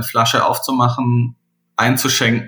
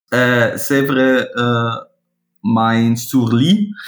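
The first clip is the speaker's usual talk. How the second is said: broken French; much slower than usual. Shown as a demonstration. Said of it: "entschuldigt mein Französisch".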